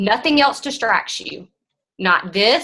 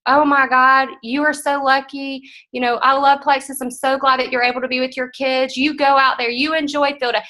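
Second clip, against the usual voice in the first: gushing team members; 4 semitones higher than usual. Retold or imitated. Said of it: "This is the comments I got back".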